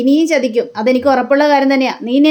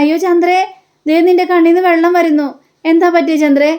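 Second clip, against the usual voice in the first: higher-pitched, mildly startled concern; mock concern; 4 semitones higher than usual. Husband asks his crying wife what happened, mildly alarmed. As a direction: act out a worried husband noticing tears.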